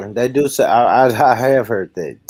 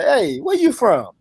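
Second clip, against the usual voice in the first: put-on London accent quote; 4 semitones higher than usual. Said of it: "a person from London say".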